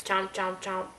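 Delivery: lightly voiced crocodile chomping; short, even crocodile chomps. Shown as a demonstration. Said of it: "What's crocodile say?".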